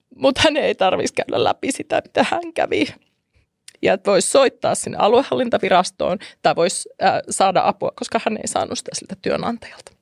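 tearful, near crying, swooping pitch. Explaining why a woman wanted this episode made, apologizing: starting to cry. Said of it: "Anteeksi, mä alan itkeä".

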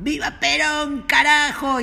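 imitated angry yell, slowed. Speaker recalling the listener's father on election day, retelling a furious shout. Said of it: "a gritar furioso".

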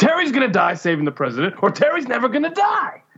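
forceful yell, pitched high. Quoting a scene from Brooklyn Nine-Nine where Terry Crews yells. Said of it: "He, like, yells".

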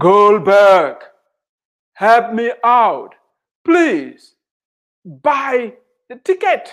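put-on heavenly, divine-sounding voice. Telling a joke, the speaker delivers the answer to the prayer: booming voice of God. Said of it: "in a booming voice said".

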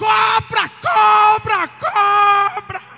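very loud, repeated, high-pitched yelling. Retelling the moment a snake stopped in front of the door, reenacting his own yelling. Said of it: "E eu comecei a gritar".

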